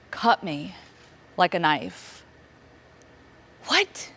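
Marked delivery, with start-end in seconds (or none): 3.7-4.1 a jolt of a what, much higher; stunned and breaking; shocked disbelief. Retold or imitated. Reaction to the second death.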